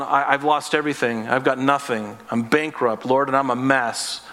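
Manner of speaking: low, subdued confession of defeat; acted hopeless admission, pitched well down; mock despair. Broken believer on the floor confessing to the Lord, mildly despairing. Voices person at rock bottom.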